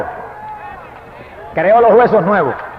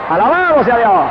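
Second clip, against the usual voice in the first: loud, higher cry of praise; fervent praise; 4 semitones higher, 4 dB louder than usual. Real, not acted. Preacher to congregation, a loud fervent cry of praise. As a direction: burst out praising God.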